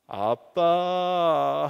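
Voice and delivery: very slow, drawn-out sweet call; wheedling call. Retold or imitated. Son wanting something from dad, long wheedling call. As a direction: stretch it out to ask for something. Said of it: "뭘 달라고 하-, 요구하는 겁니다".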